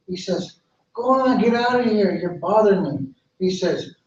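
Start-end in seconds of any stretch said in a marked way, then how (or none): 0.9-3.1 dismissive. Acted. Dogwood rejects the bird.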